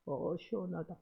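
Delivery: "시원하다" lifted and leaned on, but very soft; soft stressed relief. Retold or imitated. Pastor beaten, quoted sighing relief.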